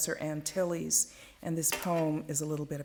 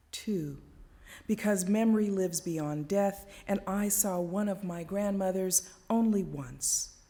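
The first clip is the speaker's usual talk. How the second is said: measured, deliberate poetry reading; poem reading; 2 semitones higher than usual. Acted. Reads her first poem aloud.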